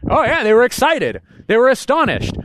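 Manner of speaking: 흥분해서 기뻐하며; excited joy. Retold or imitated. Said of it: "I go like".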